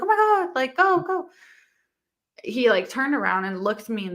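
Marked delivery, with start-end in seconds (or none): 0.0-1.3 high frantic "go, go"; pitched-up panicked urging; retold panic. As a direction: yelp it out in a panic. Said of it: "you're like".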